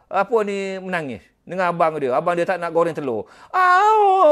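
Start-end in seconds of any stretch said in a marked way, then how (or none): 3.5-4.3 a sharp, high exclamation far above the voice; sudden loud cry. Retold or imitated. Mimicking the little boy crying, a loud high Ah. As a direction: burst out with a loud Ah. Child crying over fried egg.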